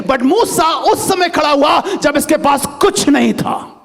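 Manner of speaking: slow, shouted proclamation; preaching shout. Acted. Pastor stressing Moses had nothing, slow and shouted.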